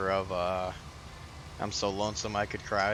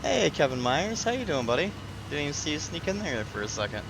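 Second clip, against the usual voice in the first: cheery greeting; 5 semitones higher than usual. Real, not acted. Greeting a viewer who arrived.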